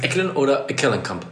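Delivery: two versions of Eckelenkamp, the stress moved; stress alternatives. Shown as a demonstration. Host asking co-host how the name is stressed, stress alternatives. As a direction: try Eckelen, then Eckelenkamp with shifted stress. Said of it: "Die Betonung woanders".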